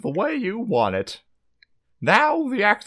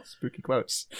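spooky hushed whisper; 4 semitones lower, 9 dB quieter than usual. Pretend. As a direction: breathe it like a ghost story.

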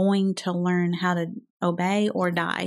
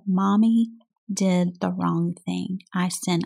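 put-on gentle apology to toddler. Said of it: "gotten my little toddler's face and said".

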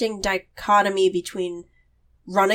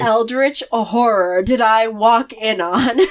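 horrified disbelief; 3 dB louder than usual. Pretend. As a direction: drag it out in shock. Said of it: "who's just like".

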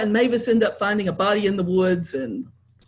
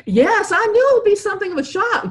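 higher, louder smooth bluff; George, bluffing; 12 semitones higher, 5 dB louder than usual. A narrator's reading. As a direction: cover it up breezily. George covering, lighter voice.

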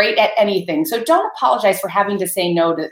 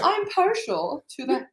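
high, slow, prissy mock of him; mocking imitation; 9 semitones higher, 5 dB quieter, slower than usual. Wife mocks husband's gentle phrasing, drawn-out teasing. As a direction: stretch it out, teasing his wording. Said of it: "You would never say".

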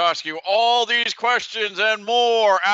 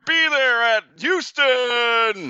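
monster truck ad; 5 semitones higher, slower than usual. Acted. Event ad tagline.

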